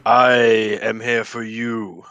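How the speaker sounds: slow booming wizard voice. Acted. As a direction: boom it out slowly and grandly. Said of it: "in a booming voice".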